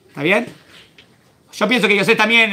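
ordinary talk

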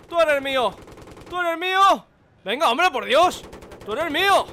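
taunting shout. Real, not acted. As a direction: crow over your prey. Taunting the enemy, escalating.

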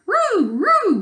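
high howling "Roo, roo"; loud high canine wail; excited dog wail. Acted. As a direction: howl it like a happy dog. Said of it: "wailed Kem excitedly".

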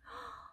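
sharp, high little gasp of delight; soft surprised intake of breath. Acted. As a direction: gasp as if seeing a sweet gift. Opening a gift.

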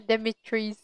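Demetrius ending in "trees", no U sound; mispronounced name. Shown as a demonstration. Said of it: "I pronounce it as Trees".

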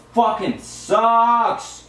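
slow, drawn-out frustrated curse; mad. Real, not acted. Player cursing the game after losing, mad. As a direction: stretch the curse out in real anger. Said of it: "You mad?".

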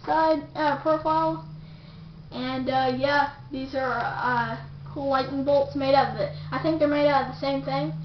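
speaking through face mask; wearing a superhero mask. Real, not acted. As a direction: hands pressing on mask. Seen 0: Red superhero cowl worn over head and face throughout; removed later.

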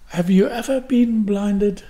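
usual speaking voice

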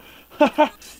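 loud high burst of laughter. Real, not acted. Gamer cracking up after the kill, loud laugh. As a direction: laugh out hard at the win.

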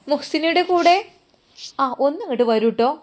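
calling out. Acted. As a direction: summon the patient's companion. Nurse calls for patient's companion.

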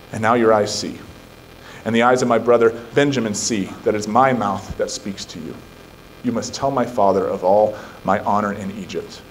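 measured, solemn Bible reading; scripture reading. Acted. Pastor reading Genesis aloud to the church in a solemn voice. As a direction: read the passage with weight.

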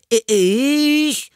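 very high, stammered, drawn-out protest; indignant boy. A narrator's reading. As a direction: squeak out an offended child's question. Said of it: "rief Anton empört". (empörte, hohe Jungenstimme, stotternd)

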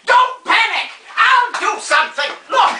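high, hammed-up alarm; theatrical panic. Old star dropping the ladder, mock panic.

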